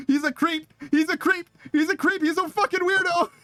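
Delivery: high, rising outrage at a creep; outraged disbelief. Real, not acted. Streamer appalled at chat's boyfriend story, high outraged.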